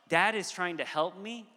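lifted, open tone ending on a rise; trusting child. Retold or imitated. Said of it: "a posture of".

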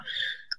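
heavy breath out after the stairs; winded exhale. Real, not acted. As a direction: blow out a tired breath. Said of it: "sorry, I'm out of breath".

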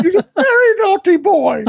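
high screechy Python mother; Python mum falsetto. Retold or imitated. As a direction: shriek it like a Python lady. Echoing the Python quote.

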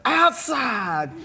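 high, loud rodeo holler; full-throated cowboy scream for the gate; screamed call. Retold or imitated. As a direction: yell it to open the gate. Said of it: "as loud as I could, I screamed".

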